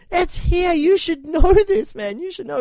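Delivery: high, slow, laughing through it; drugged scolding. Retold or imitated. Patient on anaesthetic mocking the surgeon, high laughing scold. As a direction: giggle out the scolding, loopy on the drugs.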